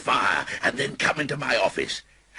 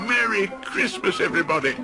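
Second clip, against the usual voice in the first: high, louder festive shout; calling out; 4 dB louder than usual. Acted. Scrooge calls out to everyone in the streets, merry. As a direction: greet the whole street. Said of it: "walked through the streets calling out".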